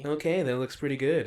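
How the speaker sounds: lightly imitated reviewer's approving catchphrase; a hint of a pleased, easygoing taster; Steve1989MREInfo impression. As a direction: lightly mimic his mild approval. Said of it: "He always goes like".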